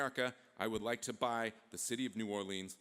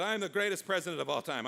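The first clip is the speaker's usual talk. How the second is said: boastful Jefferson; 4 semitones higher, 6 dB louder than usual. Acted. Jefferson boasts of his luck.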